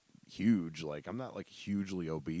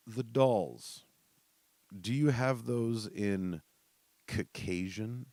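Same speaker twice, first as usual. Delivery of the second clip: customer voice; 4 semitones higher, 3 dB louder, much slower than usual. Retold or imitated. Caller voiced in story.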